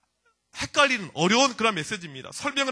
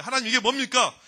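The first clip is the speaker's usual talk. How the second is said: raised, protesting question; confronting God; 3 semitones higher, 4 dB louder than usual. Acted. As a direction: demand an answer from God. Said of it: "하나님께 따지고 있어요".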